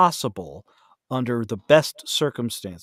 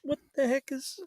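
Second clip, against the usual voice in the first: startled; 11 semitones higher than usual. Retold or imitated. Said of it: "is like".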